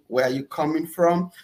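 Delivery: ordinary talk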